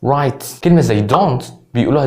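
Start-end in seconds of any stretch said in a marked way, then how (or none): 0.0-0.4 "رايت" ending in ts; Scouse final t. Shown as a demonstration. Teacher repeating the Liverpool word for learners, "رايت" ending in ts. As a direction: add an s after the t of "رايت". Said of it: "بيقولها رايت".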